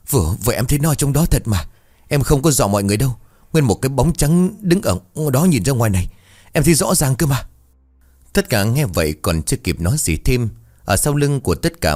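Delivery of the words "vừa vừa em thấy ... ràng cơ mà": higher-pitched, flustered protest; anxious insistence. Acted. Frightened man insists to the group he saw it, flustered high voice. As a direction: plead to be believed.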